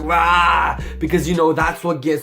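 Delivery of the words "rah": short growled Rah, mocking; mock aggressive roar. Mocking dramatic YouTubers with a fake roar. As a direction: bark it like a hype YouTuber. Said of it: "make it more aggressive".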